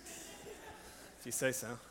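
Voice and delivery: breathy, very slow whisper; Mary whispering her assent to the angel; whispered reply. Acted.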